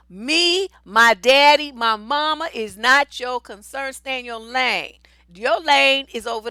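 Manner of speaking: loud, slow, emphatic telling-off; angry outburst. Acted. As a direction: put the busybody in her place. Telling off the busybody friend.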